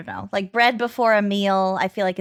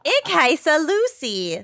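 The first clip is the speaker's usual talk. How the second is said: put-on German accent; 5 semitones higher, slower than usual. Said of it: "with a German accent".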